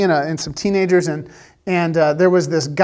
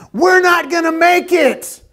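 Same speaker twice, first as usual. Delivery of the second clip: high retold panic shout, much higher; panicked yell; 9 semitones higher than usual. Rafting guide yells to the paddlers in panic, high shout. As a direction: scream it like the boat is going down. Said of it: "yell at the top of his lungs".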